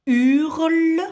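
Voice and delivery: Hurle said high and firm; dictated word. Shown as a demonstration. Teacher repeating the word for a pupil, firm and clear. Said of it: "ce qui fait le mot".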